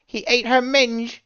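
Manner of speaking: shrieked way up high, hammed-up; high mock squeal. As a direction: squeal it like a mocking parody. Mocking Alex's boast.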